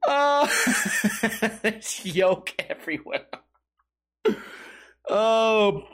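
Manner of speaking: giggling through the words; laughing. Real, not acted. Host laughs at his own egg-yolk bit. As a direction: break up laughing mid-line.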